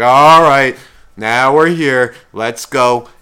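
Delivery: mock-heavy, loud groaned-out resignation; depressed Atreyu. Speaking for the depressed boy hero, mock glum. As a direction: haul the words out glumly, easing off by the end. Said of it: "Atreyu was the fucking depressed one".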